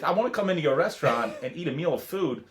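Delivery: a hint of the famous actor's odd, halting cadence; Christopher Walken impression. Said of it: "You're doing pretty good".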